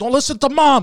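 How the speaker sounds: mock very high-pitched, loud, agitated yelling. Retelling a street argument, quoting what they yelled at their brother, retelling own yelling. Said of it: "Now I'm yelling at my brother".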